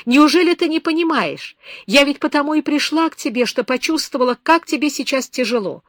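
high, loud, urgent outpouring; impassioned pleading. A narrator's reading. Beba pleads with lonely Herardo, loud and high. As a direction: pour out your heart, begging him to believe. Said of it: "крикнула она".

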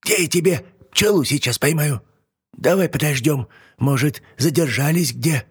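put-on high testy old hag; old witch voice. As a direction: snap then soften like a witch. Yaga's voice.

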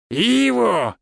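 high, delighted call; joyful greeting. A narrator's reading. Finn opens the door to a visitor, joyful. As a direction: greet an old friend with open delight. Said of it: "Радостный голос Финна прозвучал".

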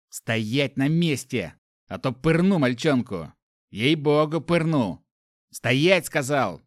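slow, loud threat; menacing threat. Acted. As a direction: freeze them with the threat. Thug threatens the boy.

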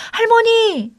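high, loud, drawn-out call. A narrator's reading. Granddaughter running to her fallen grandmother, calling out. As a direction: cry out to her from a distance. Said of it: "할머니를 부르며 뛰어갔습니다".

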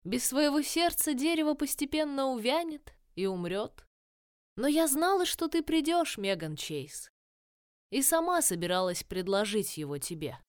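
lightly voiced tree crone; ancient dryad. Dryad voice, held.

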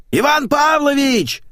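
loud high call from the hallway; yelling a name. Acted. Maid yelling to the man in the bath, loud call. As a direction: shout his name through the door. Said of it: "заорала из коридора домработница Ленка".

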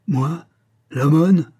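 L'aumône thrown out high and loud, indignant; exasperated outcry. A narrator's reading. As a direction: bristle at the word L'aumône. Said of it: "s'écria l'homme exaspéré".

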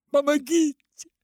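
very high, loud cry for help; desperate shout. A narrator's reading. Father screams for help, desperate. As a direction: scream for help with all you have. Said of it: "а потом крикнул".

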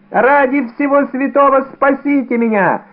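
high, pleading wail of terror; panicked pleading. A narrator's reading. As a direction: beg them to save you. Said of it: "возопил он".

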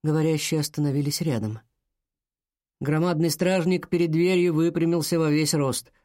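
ordinary delivery, nothing marked

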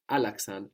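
Alaxan with the accent on its first syllable; Alaxan, accented right at the front; stress pulled back. Shown as a demonstration. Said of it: "we must pull the accent back".

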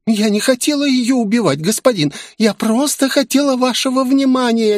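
high, babbling excuse. Acted. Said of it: "лепетала демонесса". (высокий испуганный лепет)

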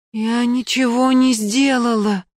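high, slow desperate shout; desperate cry. Acted. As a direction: cry out in despair. Лена отчаянно кричит.

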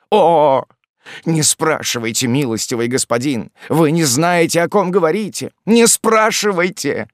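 pleading that climbs to a high, loud cry; frightened cry. A narrator's reading. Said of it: "вскричал Спиагудри". (испуганная мольба, переходящая в крик)

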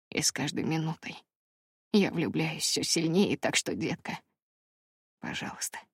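soft low-key man's confession of love; hushed heartfelt lover's plea; Brandon, tender and remorseful. A narrator's reading. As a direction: murmur it close, sincere and humble. Brandon's long confession voiced.

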